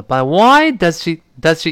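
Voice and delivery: "does she" light and quick after a strong "why"; unstressed "does she" passed over lightly. Shown as a demonstration. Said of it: "does我们听的时候呢就特别轻了".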